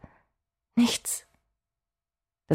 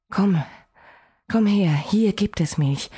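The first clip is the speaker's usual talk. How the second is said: coaxing; 2 semitones higher than usual. Acted. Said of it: "lockte ich in Gedanken".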